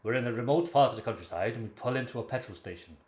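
attempted Irish accent gone Welsh; restrained Welsh-sounding broadcaster impression; Terry Wogan. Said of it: "I've got Welsh, haven't I?".

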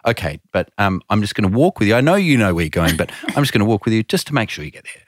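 lightly voiced patient escort; imitating kindly reassurance. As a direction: gently humour someone who insists. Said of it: "the lady was so lovely".

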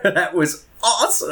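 laughs high, then delighted words; laughing. Real, not acted. Laughing at the story.

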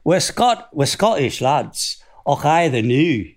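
lightly put-on Scottish lilt; Scottish accent. Songwriter performing the Scottish players' line in a mock Scots accent. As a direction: recite it like cheeky Scottish lads. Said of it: "the Scottish people, 'cause their line was".

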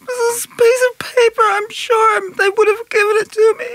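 crying and shouting through tears; wailing. Acted. Maid wailing to the caller about the lost slip.

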